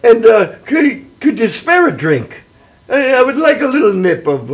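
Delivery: hesitant stage Irish request; Irish accent. Acted. Leprechaun begs a drink from the host, in Irish accent. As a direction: cadge a drink in an Irish lilt. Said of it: "I can do an Irish voice".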